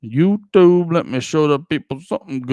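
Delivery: loud plea to the algorithm; calling out. Acted. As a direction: shout it up at the screen. Calling out to YouTube.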